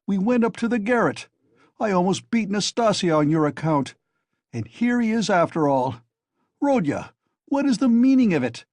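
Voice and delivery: high, loud furious shout; angry shouting. A narrator's reading. Razumihin shouts at Raskolnikov, furious to find him out. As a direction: yell at him in real anger. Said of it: "he shouted at the top of his voice".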